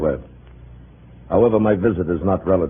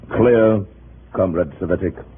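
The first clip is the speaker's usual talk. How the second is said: stern demand; 2 semitones higher, slower than usual. Acted. Commissar demands compliance.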